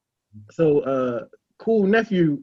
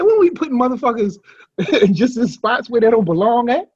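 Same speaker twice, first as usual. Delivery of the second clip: quoting Cool; 2 semitones higher than usual. Retold or imitated. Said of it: "He said".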